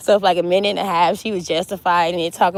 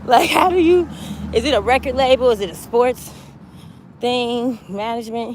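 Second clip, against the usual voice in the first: mock Charlamagne; 5 semitones higher than usual. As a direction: push the question through a giggle. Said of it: "So Charlamagne gonna ask".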